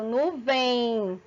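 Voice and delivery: "nuvem" drawn out, ending in an I glide; final M as I. Shown as a demonstration. Teacher demonstrating a hidden diphthong, final M said as I. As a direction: let the end of "nuvem" sound like I. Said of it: "a última pronúncia minha tem som de I".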